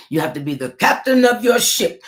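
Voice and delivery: a hint of a swaggering captain; bad pirate voice. Self-mocking pirate voice urging viewers to take charge. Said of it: "that was the worst pirate voice".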